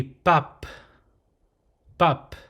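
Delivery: unpuffed onset, airy end on "pop"; closed syllable. Shown as a demonstration. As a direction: shut "pop" on the lips. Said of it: "for the closed phonetic, closed syllable".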